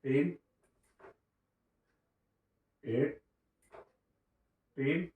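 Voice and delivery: एट and टीन said as separate pieces with long pauses; syllable by syllable. Shown as a demonstration. Teacher splitting eighteen into parts for kids, slowly. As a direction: break the word into एट and टीन. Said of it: "अठारह को हम लोग पढ़ते हैं एट".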